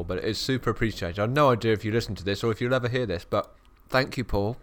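talking through a mouthful of mince pie; chewing while speaking, mouth full. Real, not acted. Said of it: "sorry I'm speaking my mouth full".

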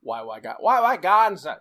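hint of a musician's sung-out catchphrase; a singer. Shown as a demonstration. Host trying a singer's way of saying the name, light impression. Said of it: "say it like Wyclef Jean would say".

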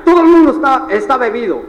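loud, high mock outrage; hammed-up loud astonishment at a crazy crowd; retold disbelief. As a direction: exclaim it like a scandalized newcomer. Retold shock at shouting crowd.

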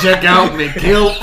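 put-on Scottish accent. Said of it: "joking Scottish Shrek impression".

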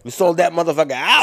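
shouted high and loud, triumphant; whooping brag to the podcast audience; hyped shout. Real, not acted. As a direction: yell it like a victory lap. Hyped celebration of sold-out show.

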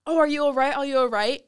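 mimicking staff. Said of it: "they kept saying".

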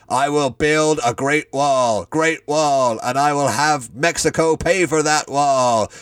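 slow, lightly voiced Trump, not his own timbre; drawn-out mock Trump pronouncement; Donald Trump voice. Fan fiction Trump booming over the cowering Cage, mock impression. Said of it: "Donald Trump's voice grew louder".

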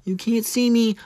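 high mock wrestler taunt; Cena catchphrase. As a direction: tease it like a wrestler. John Cena catchphrase, high far voice.

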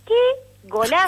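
drawn-out, high, loud cry of delight; excited goal shout. Real, not acted. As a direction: belt it out like a goal call. Grita el gol narrado. (grito de gol emocionado)

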